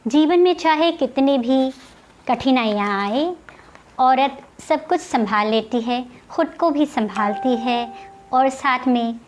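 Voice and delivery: measured poetry reading with long pauses between short phrases; poem recitation. Acted. Poet reciting her first poem to online viewers, poem recitation. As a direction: recite it line by line, letting the refrain drop.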